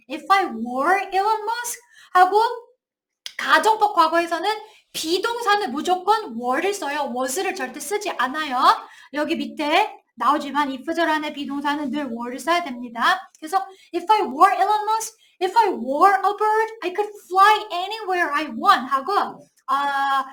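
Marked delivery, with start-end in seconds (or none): 0.1-1.8 slow, careful English example; slow correct example. Shown as a demonstration. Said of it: "과거 동사를 써야 돼요". 13.9-18.9 slow example reading. Shown as a demonstration. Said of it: "slow example sentences".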